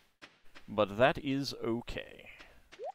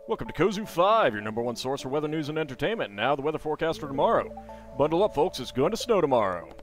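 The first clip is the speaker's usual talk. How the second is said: weather announcer; 2 semitones higher, 5 dB louder than usual. Acted. Reading TV weather report.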